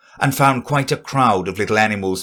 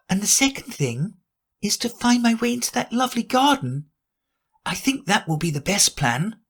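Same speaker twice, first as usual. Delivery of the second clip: put-on higher girlish musing voice; a curious girl thinking aloud; Alice to herself; 10 semitones higher than usual.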